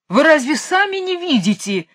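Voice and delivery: high-pitched royal outcry; high, worked-up cry of disbelief; exasperated yell. A narrator's reading. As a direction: wail it out, pitch leaping up. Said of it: "завопил король".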